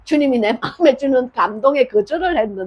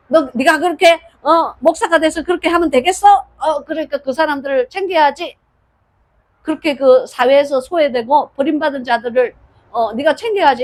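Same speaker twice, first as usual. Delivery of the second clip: 상상 속 꾸중; 2 semitones higher, 3 dB louder than usual. Pretend. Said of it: "야단을 치시고 꾸중을 하시면은".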